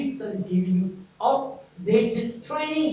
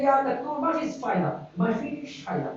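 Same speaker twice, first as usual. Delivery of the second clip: a hint of Egyptian villager dialect; lightly voiced Egyptian villager giving up; 4 semitones higher, much faster than usual. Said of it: "They speak like this, uh, Egyptian villagers".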